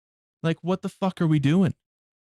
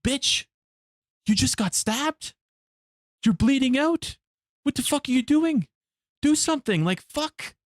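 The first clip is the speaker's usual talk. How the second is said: much higher, exasperated disbelief at the victim; incredulous yelling at screen; 10 semitones higher than usual. Retold or imitated. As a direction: yell at the video in shocked disbelief. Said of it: "I'm sitting there going like".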